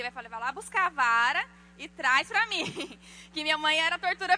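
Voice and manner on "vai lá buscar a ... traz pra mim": slow, louder stern mother's order; a strict mother handing down the order. Retold or imitated. Mother orders her to fetch switch.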